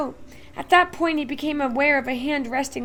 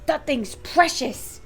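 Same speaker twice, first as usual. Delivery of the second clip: higher and louder, almost beside himself; bursting with pride and panic; frantic excitement; 4 semitones higher, 6 dB louder than usual. A narrator's reading. Shopkeeper having a fit.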